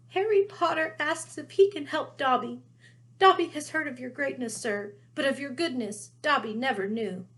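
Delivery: a worshipful little elf gushing; awed house elf. Acted. Dobby voiced, awed.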